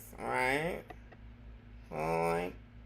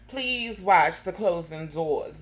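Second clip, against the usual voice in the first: mock subway announcer; 5 dB louder, slower than usual. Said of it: "sis come through saying".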